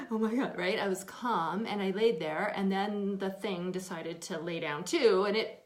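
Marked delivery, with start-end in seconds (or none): 0.1-0.5 hammed-up panicked panting; imitating hyperventilating fright; mock panic. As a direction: pant in pretend panic, then blurt it out. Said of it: "But I wasn't like".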